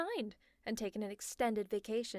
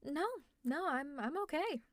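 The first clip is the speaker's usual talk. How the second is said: uneasy laugh; 5 semitones higher than usual. Acted. Laughs, insisting they are fine.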